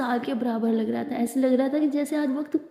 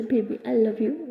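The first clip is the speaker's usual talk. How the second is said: tender; 2 semitones lower, much slower than usual. Acted. Anokhi softening.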